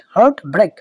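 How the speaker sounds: equal stress on হার্ট and on ব্রেক; both syllables stressed. Shown as a demonstration. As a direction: say হার্ট ব্রেক as two firm, separate beats. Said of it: "দুটা কিন্তু stressed হবে".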